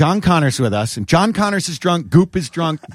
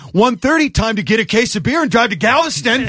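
excited party plan; 6 semitones higher than usual. Retold or imitated. The drunk him to friends at closing, eager excitement. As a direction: sell the bad idea with glee. His drunk self egging on.

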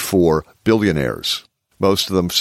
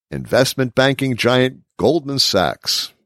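big booming announcer read; 3 semitones higher than usual. Shown as a demonstration. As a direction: announce it like a fight-night host. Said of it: "This is my announcer voice".

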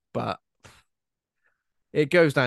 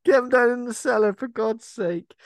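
bossy mock order; 11 semitones higher, 7 dB louder than usual. Podcaster voicing the old couple hiding chocolates, exasperated mock order. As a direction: order them about in a put-on voice. Acting out a bossy film character.

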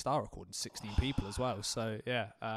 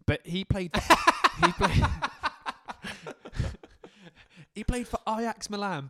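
giggling through the words, pitched up; breaking into high laughter mid-sentence; can barely get it out for laughing; 7 semitones higher, 5 dB louder than usual. Real, not acted. Laughing while telling about player.

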